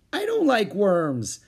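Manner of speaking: put-on high, slow, loud childish refusal; whiny little girl. A narrator's reading. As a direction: echo the refusal, drawn out and childish.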